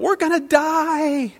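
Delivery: high, slow, drawn-out mock panic; panicked cry. Disciples in the sinking boat, hammed-up panicked cry. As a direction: wail like sailors in a storm. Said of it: "start to cry out".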